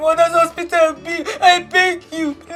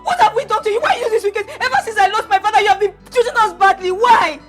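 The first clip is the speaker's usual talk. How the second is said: accusing rant, pitch a little raised; heated tearful accusation; 2 semitones higher than usual. Acted. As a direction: pour out the grievance at uncle. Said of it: "When you are done ranting".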